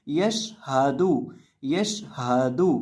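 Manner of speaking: यशहादू with sh held steady, no added vowel; still sheen. Shown as a demonstration. Teacher repeating the right reading, unbounced sheen in यशहादू. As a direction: run sh into हादू without bouncing it in यशहादू. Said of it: "शीन को आपने यहाँ हिलाकर नहीं पढ़ना".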